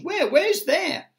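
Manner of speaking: high, loud demand to know; startled question. A narrator's reading. Shaken creatures pressing the grasshopper for an answer, startled. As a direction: ask it high in disbelief.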